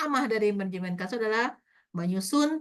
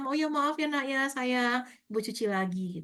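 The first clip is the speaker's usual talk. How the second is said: tender apology; 3 semitones higher, 3 dB quieter than usual. Retold or imitated. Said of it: "katanya, kita minta".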